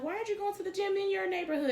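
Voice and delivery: imitating a questioner. Someone questioning her gym choice.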